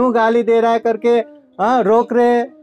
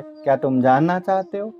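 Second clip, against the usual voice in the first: lower, calm inviting question; gentle Buddha; 5 semitones lower, 4 dB quieter than usual. Acted. Buddha inviting the Brahmin to learn, low and gentle. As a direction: ask softly like a patient teacher. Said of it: "Buddha कहते हैं".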